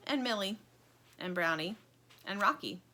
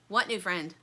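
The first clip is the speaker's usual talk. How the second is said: snapping. Acted. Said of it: "snaps Stingray".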